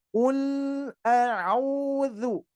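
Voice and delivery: "Ul" with a short, flowing l; flowing lam. Shown as a demonstration. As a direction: let the l in "Ul" flow a little. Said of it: "dialirkan dulu".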